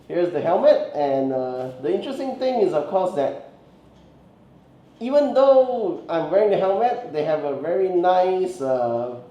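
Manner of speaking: muffled, talking through a helmet; inside an Iron Man helmet. Real, not acted. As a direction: voice boxed in behind a plastic faceplate. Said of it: "you can still easily hear me through the, when I'm talking through the helmet".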